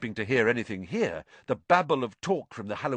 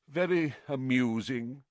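darkly; 3 semitones higher than usual. A narrator's reading. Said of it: "said nearly headless Nick darkly".

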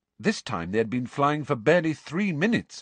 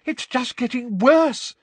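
high, slow, thick through a nosebleed; slow, higher, thick voice; thick-voiced; 14 semitones higher, 6 dB louder than usual. A narrator's reading. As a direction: speak through a bloody nose. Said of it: "said Katie thickly".

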